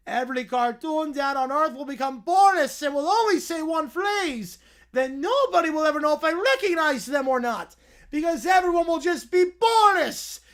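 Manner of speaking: booming cartoon villain unveiling his invention; Doofenshmirtz villain voice. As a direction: ham up the evil scientist's big reveal. Voicing Doofenshmirtz backstory rant.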